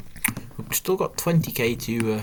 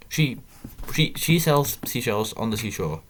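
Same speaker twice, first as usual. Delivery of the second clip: quicker rushed go at the tongue twister, stumbling at the start; faster tongue twister; 3 semitones higher than usual. Shown as a demonstration. Player retrying the tongue twister faster for viewers, rushed. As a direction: push the words out faster, tripping on she. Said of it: "Gotta say that a bit faster".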